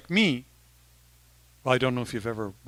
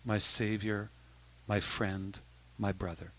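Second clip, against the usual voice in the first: prayerful translation; 5 semitones lower, 7 dB quieter, slower than usual. Shown as a demonstration. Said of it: "what it means in English is".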